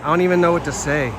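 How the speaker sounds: loud, fast, stunned; can't believe what he's reading; shocked disbelief. Real, not acted. Repeats shocked reaction.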